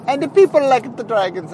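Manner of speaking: a quick hammed-up Italian accent. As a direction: slip into an Italian accent for a line. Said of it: "I don't know why I'm doing the Italian accent".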